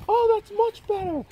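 cheery high TV host; TV presenter voice. Retold or imitated. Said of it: "another one that he did".

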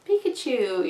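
light, sweet imitation of a cheerful Pikachu; cute happy Pikachu. Telling viewers how anime Pikachu sounds, mild cute imitation. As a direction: chirp it like a happy little creature. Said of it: "you know, all cute and happy".

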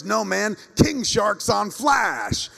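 high, impassioned yell, stretching the last words; mock-frantic fan shouting big news; imitated excited scream. Friend phones about King Shark, screaming. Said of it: "he called me up screaming about King Shark being on".

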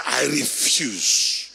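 slow, low, defiant shout of I refuse; holy anger. Shown as a demonstration. Preacher showing the church how to refuse death, angry shout. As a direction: bark out the refusal like righteous anger. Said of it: "I'll get holy anger to come in me right now".

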